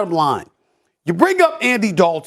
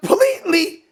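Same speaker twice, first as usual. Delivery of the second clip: laughing joy; 6 semitones higher, slower than usual. Real, not acted. Overjoyed, laughing about Kimberly.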